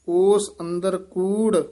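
ਉਸ ਅੰਦਰ ਕੂੜ, halting on ਕੂੜ; brief pause after ਕੂੜ. Shown as a demonstration. Teacher marking for students a short halt after ਕੂੜ. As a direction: stop briefly once ਕੂੜ is said. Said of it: "ਇੱਥੇ ਠਮਕ ਹੈ".

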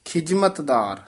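ਖਿਜਮਤਦਾਰ with a plain j sound, not jh; ਖਿਜਮਤਦਾਰ ਜੱਜੇ ਨਾਲ. Shown as a demonstration. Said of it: "ਕਈ ਝੱਜਾ ਬੋਲ ਦਿੰਦੇ ਆ".

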